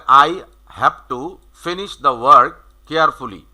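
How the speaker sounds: slow, with weight on "finish", "work", "carefully"; stress on content words. Shown as a demonstration. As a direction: keep "I have to" light, lean on "finish the work carefully". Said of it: "এই শব্দগুলো কিন্তু আমাদের stress দিতে হবে".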